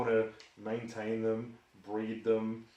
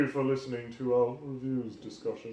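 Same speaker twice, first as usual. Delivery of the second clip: put-on posh English voice; plummy posh sign-off voice. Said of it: "your posh voice".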